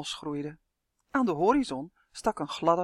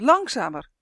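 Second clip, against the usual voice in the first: roepend; 5 semitones higher, 7 dB louder than usual. A narrator's reading. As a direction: call out urgently. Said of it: "riep Justin". (dringend luid roepen)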